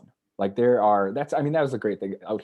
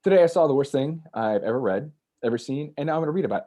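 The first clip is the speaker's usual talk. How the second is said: louder, higher announcement to the crowd; stage announcement; 6 semitones higher, 3 dB louder, faster than usual. Retold or imitated. Addressing the reading crowd, louder and higher. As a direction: open the reading like a bold confession. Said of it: "I go".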